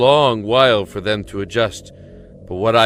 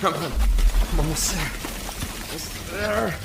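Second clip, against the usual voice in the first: straining, breaking through; 10 semitones higher than usual. Acted. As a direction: push through the last inches, calling out to her.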